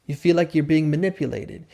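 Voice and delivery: calm, understated echo; calm mirror. Shown as a demonstration. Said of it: "in a really calm way".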